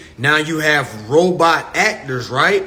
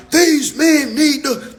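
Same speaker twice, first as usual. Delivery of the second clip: much higher, slow, mock-sassy woman; mock complaining woman; 9 semitones higher, 3 dB louder, slower than usual. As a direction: drag it out like a fed-up woman. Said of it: "women be like".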